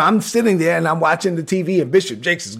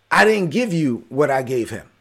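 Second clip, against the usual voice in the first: God's voice; 5 semitones lower, 4 dB quieter than usual. Retold or imitated. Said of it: "one of the first things I ever heard God say to me".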